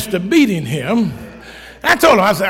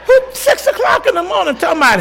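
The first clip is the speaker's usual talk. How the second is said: high, crying-laugh protest; laughing disbelief; 9 semitones higher than usual. Real, not acted. Grandfather telling congregation about dawn text, wailing. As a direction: wail it half laughing.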